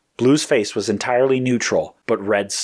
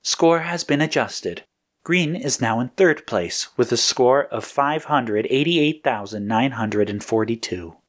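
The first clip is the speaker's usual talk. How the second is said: slow, slightly raised computer readout; computer announcement; 4 semitones higher than usual. Acted. Computer reporting scores to agents, lightly voiced slow announcement. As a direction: read out results like a computer, slowly.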